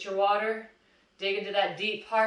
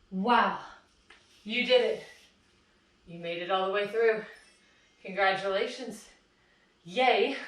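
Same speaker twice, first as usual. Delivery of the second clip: louder, bright congratulations; excited cheer; 3 dB louder than usual. Real, not acted. Fitness coach to class after the final hold, excited cheering. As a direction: celebrate the finish with the class.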